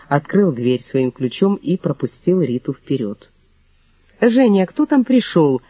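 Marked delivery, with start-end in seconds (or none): 4.2-5.6 high, slow, practised sweetness; falsely friendly call. A narrator's reading. Mother-in-law calls to her son from the flat, falsely sweet. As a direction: call out with rehearsed fake kindness. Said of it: "хорошо поставленный голос ... заученной фальшивой доброжелательности".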